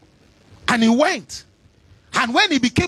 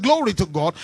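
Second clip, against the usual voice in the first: repeated louder; 4 semitones lower than usual. Real, not acted. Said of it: "I said".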